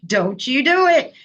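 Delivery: fighting not to cry, a tearful laugh in the middle; urgent teary self-warning, breaking into a laugh; holding back tears. Retold or imitated. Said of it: "the whole time it's like".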